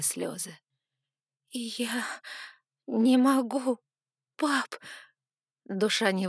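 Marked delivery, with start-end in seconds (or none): 1.5-4.7 higher voice, close to tears; tearful cry. Acted. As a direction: plead through rising tears. Crying to her father. (дочь сквозь слёзы кричит отцу, высоко и надрывно)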